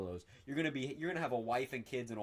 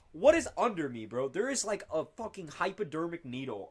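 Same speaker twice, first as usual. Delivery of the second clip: high, loud bewildered outburst; startled, baffled protest; real alarmed annoyance; 6 semitones higher, 4 dB louder than usual. Real, not acted. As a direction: yelp the complaint, pitched way up. Something jabbing the speaker.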